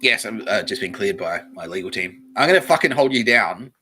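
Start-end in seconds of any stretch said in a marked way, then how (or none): 2.4-3.7 loud ranting threat; hammed-up angry outburst; mock threat. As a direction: raise your voice into a comic tirade. Mock threat in an acted rant.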